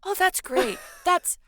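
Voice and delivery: gentle giant cooing hello to a friend; Alex's sweet friendly voice. Retold or imitated. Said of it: "He uses that voice".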